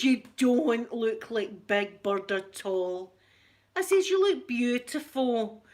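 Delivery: slow, tender comfort to a daughter; mother soothing her daughter; soothing reassurance. Retold or imitated. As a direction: gently talk her out of it, slowly.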